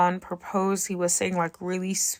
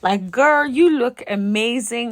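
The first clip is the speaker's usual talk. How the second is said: excited; 4 semitones higher, 6 dB louder than usual. Real, not acted. Amazed at mom of three.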